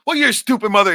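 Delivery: high, loud hammed-up sneer; dad snapping at his son, loud and mocking; retold insult. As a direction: fling the insult loudly, voice well up. Retold fight, father insults mother.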